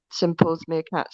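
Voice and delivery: slow attempt at a Sunderland accent. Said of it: "it was meant to be a Sunderland accent".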